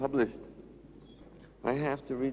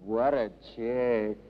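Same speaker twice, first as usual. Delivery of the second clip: groaning. Acted. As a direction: groan it out, pitched down. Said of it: "one of them groaning out".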